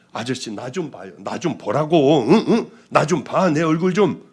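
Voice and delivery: put-on urgent plea to the drunk man; insistent calling. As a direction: call out to make him look at her.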